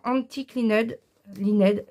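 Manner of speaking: English ink name in French accent. Real, not acted. Tutorial host naming an ink for viewers, French accent. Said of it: "excusez-moi de mon accent".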